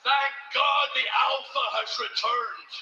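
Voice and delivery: slow, loud proclamation; triumphant shout. Acted. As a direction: announce it like a victor. Champion's triumphant return boast.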